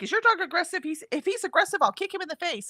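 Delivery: imitating the lady. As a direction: play the lady a little shrill and high. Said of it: "And the lady's like".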